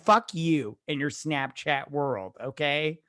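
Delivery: a fed-up adult ranting; mock rant. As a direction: lecture a know-it-all teen. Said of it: "You just be like".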